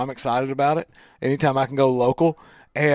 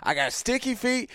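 mock listener; 5 semitones higher, 6 dB quieter than usual. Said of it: "And when you say".

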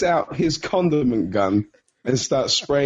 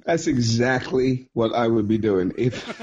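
slow words dissolving into laughter; can't get through it for laughing. Real, not acted. Player trying to answer the game master, laughing. Cracks up over the scenario.

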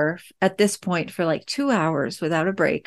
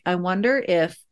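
put-on quiet, careful mom voice for a sensitive kid; gentle wondering; 3 dB quieter than usual. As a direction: lightly offer the idea without demanding. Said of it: "So I said something like".

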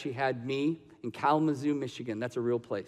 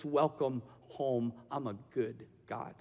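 soft welcome; 2 semitones lower, 9 dB quieter than usual. Acted. God welcoming, softly.

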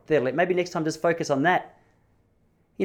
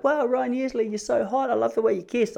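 high, breathless schoolgirl swoon, much higher voice; swooning girls; 10 semitones higher than usual. Retold or imitated. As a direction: gush like a smitten teenage girl. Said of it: "The girls are like".

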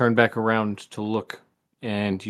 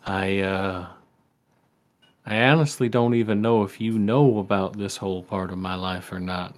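folksy dad voice. Acted. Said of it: "folksy voice he always used to do".

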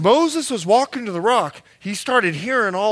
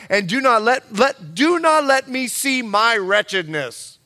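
loud lament; 4 semitones higher, 7 dB louder than usual. Acted. Moses complaining to God, read.

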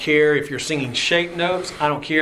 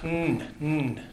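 hummed mm; 7 dB quieter than usual. Shown as a demonstration. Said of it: "guttural thing starting in mm".

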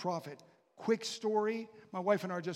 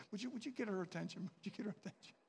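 mock impatient diner; 4 dB quieter, faster than usual. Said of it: "say to my wife".

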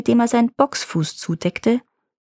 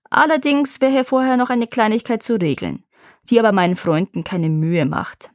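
casual and sly; 3 semitones higher than usual. Acted. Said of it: "ganz beiläufig und hinterlistig".

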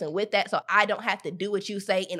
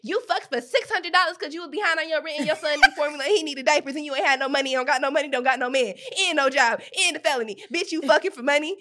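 mock judgmental scolding; 3 semitones higher than usual. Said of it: "people be like".

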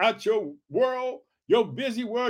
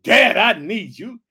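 calling out; 7 dB louder, slower than usual. Retold or imitated. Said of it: "You can call out".

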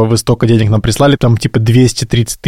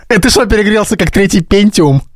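laughing tease; 9 semitones higher than usual. Real, not acted. Teasing joke with laugh.

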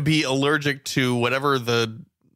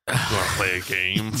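low creepy Saw puppet voice; 5 semitones lower than usual. Retold or imitated. Mock Saw villain inviting them to play. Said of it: "like Saw three".

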